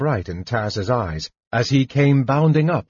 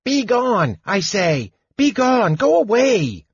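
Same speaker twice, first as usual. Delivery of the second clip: high, insistent kender banishing; gruff act gone high, still commanding; strained mock command; 12 semitones higher, 3 dB louder than usual. A narrator's reading. Kender repeats banishment to specters, failed gruff authority. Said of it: "In between the hacks and splutters".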